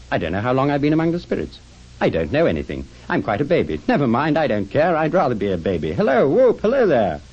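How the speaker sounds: swooping high, elated babble; giddy joy. Acted. Scrooge awake and reborn as a baby, giddy joy. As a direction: babble happily, building to a high loud whoop.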